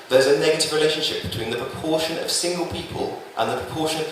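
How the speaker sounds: measured recital with repeated refrain cadence; spoken-word poem. Acted. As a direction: deliver statistics as earnest love poetry, phrase by phrase. Recites his statistical love poem.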